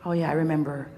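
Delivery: low, slowing, downcast realization; mock confused gloom. Acting out waking up confused.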